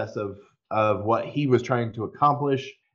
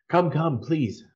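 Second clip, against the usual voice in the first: mild yell, higher on the first come; yells back; 6 semitones higher than usual. Acted. Anowin yells back to the party to follow, a mild raised yell. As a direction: call back over her shoulder, urging them on. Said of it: "she yells back at you".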